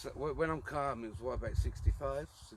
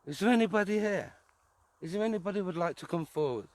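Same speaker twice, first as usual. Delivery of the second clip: calling out; 4 semitones higher, 5 dB louder than usual. Real, not acted. Calling out to spirits.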